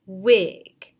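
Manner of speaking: loud answer Wig; proud pupil reply; student answer. Shown as a demonstration. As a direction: call the blended word out. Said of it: "Student then responds".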